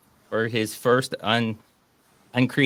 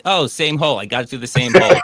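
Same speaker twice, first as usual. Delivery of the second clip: louder, raised-pitch mock bragging; mock boast; 2 semitones higher, 5 dB louder than usual. Shooter covering a total miss as a joke, mock boasting. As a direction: play a misser pretending it was a great shot. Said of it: "what you say when you completely miss everything".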